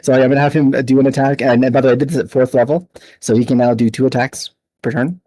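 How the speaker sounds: a light cowboy accent, barely put on. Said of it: "I'm gonna talk like a cowboy for a minute".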